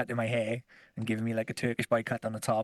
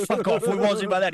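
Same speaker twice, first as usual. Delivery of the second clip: disbelieving; 7 semitones higher, 7 dB louder than usual. Retold or imitated. Retelling shocked phone call.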